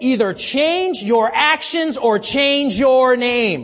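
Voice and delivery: loud, high-pitched, commanding roar. Narrating a tale, the king hurls a youth down and says to him: roaring. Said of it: "With a roar".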